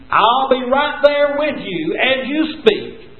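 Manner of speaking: slow, drawn-out reassurance; reassuring promise. Acted. God promising Moses he will guide him, slow and reassuring. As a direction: linger on every step as a comfort. God's promise, preached slowly.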